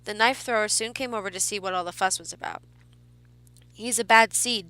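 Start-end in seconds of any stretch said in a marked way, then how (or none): 3.7-4.7 insisting. A narrator's reading. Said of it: "he insisted".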